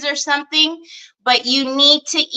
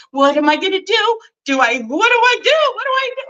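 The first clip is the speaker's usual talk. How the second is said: retold panic; 8 semitones higher, faster than usual. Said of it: "And then I was thinking".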